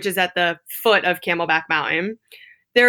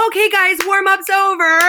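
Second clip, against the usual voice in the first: high, louder mock fitness instructor; mocking the perky teacher, high and loud; 12 semitones higher, 5 dB louder than usual. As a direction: play the tiny peppy teacher calling out. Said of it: "this little blonde pipsqueak of a teacher".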